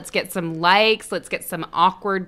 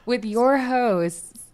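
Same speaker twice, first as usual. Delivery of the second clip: soft slow welcome; 4 semitones higher, slower than usual. Acted. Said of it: "I'm gonna speak in my safe voice".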